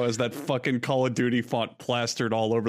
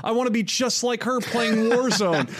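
mock excited girl voice; 5 semitones higher than usual. Voicing the girl in video.

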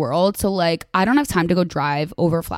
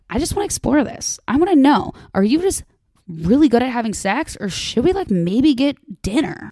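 higher-pitched, eager made-up line to the guy; playful mock quote; 5 semitones higher than usual. Advice host acting out what the listener might tell the frat guy, higher and playful. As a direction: voice it like a hopeful, flirty question. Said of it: "at least you can be like".

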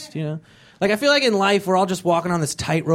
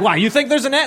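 mocking disbelief; 8 semitones higher, 3 dB louder, faster than usual. Mocking question.

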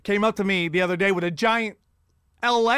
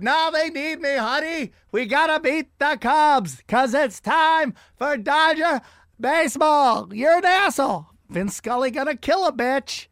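higher mock old man, pleading then rude; Vin Scully insisting; 5 semitones higher than usual. Old announcer insists the team needs him. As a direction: insist and storm out.

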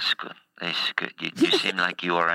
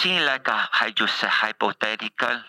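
put-on broken English accent; 3 semitones higher than usual. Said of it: "I went to a Russian accent there".

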